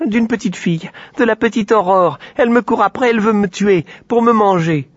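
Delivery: a scared little pig squeals for help; frightened piglet. A narrator's reading. Piglet tells the girls Aurore wants to eat him, high and frightened.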